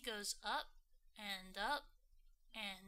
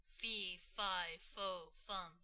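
giant voice; 4 semitones lower, slower than usual. Acted. Giant chanting fee fi fo.

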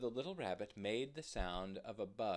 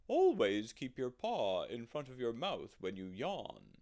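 put-on loud, hooty old owl; hooting owl voice; 2 semitones higher, 10 dB louder than usual. Old owl scolds a yawning rabbit, hooting loudly. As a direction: hoot the words out loudly, like an owl. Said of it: "hooted the owl".

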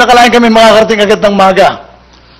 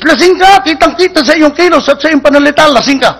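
higher, raised accusation; accusing cop; 6 semitones higher than usual. Acted. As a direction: insist he's drunk.

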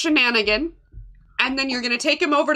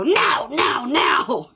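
shouting; 3 dB louder, much slower than usual. Acted. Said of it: "I pop my head back in and I go".

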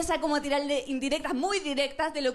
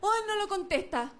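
mock whiny fretting; 5 semitones higher than usual. Anxious girlfriend checking phone.

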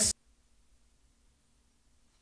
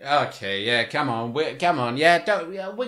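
coaxing mother; 5 semitones lower than usual. Retold or imitated. Voicing mother dragging her children.

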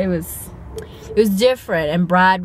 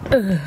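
short exasperated groan; disgusted ugh. Real, not acted. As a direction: groan in annoyance. Disgusted at snobby boyfriend.

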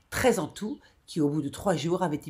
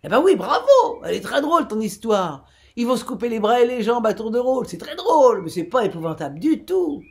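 mocking laughter; 6 semitones higher, 7 dB louder than usual. A narrator's reading. Listener mocks the grim tale.

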